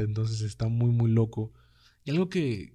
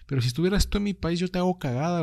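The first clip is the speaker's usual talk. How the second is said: imitated angry retort; 6 semitones higher, faster than usual. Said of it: "Pero sí era como de".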